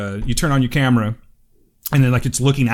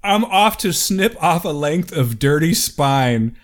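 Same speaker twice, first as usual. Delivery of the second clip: amused reread; 3 semitones higher, much slower than usual. Real, not acted. Rereads the email line laughing.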